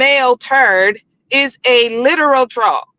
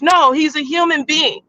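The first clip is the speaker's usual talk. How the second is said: shouting; 3 semitones higher than usual. Real, not acted. Heated panel rebuttal.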